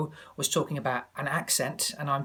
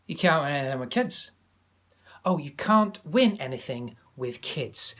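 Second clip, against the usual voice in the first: Alan Hansen Scottish. Retold or imitated. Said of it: "Example, Alan Hansen".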